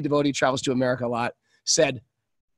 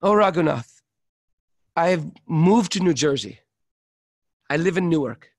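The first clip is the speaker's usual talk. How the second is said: lament. Retold or imitated. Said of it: "This is real stuff".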